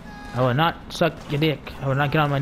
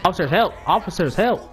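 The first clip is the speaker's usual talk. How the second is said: higher-pitched, playful plea for help; mock cry for help; 4 semitones higher than usual. Player calling game police to help him, mock distress. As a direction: call out to the officers, hamming it up.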